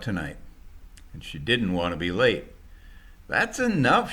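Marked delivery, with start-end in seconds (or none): 3.3-4.1 loud, high snap at the packers; shouting. Acted. Driver shouting at the packers to stop. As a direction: bark the order to wrap it up. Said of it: "she shouted at the packers".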